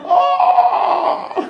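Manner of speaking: very high, loud gasp-shout; surprised shout. Retold or imitated. Girlfriend seeing the iPhone, a very high loud shout.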